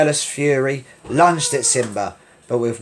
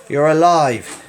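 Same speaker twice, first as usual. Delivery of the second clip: cried; 4 semitones higher, 6 dB louder, slower than usual. Acted. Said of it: "cried Sarabi".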